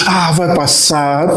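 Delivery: very slow, tender reassurance; soothing mother. Retold or imitated. Mother moved by love soothing her son in pain, slow and tender. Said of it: "movido pelo amor de ver o filho".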